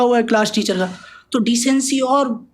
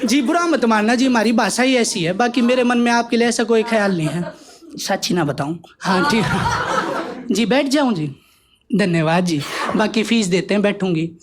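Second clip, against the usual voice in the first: Haryanvi mother. Acted. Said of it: "देसी हरियाणा की जाट".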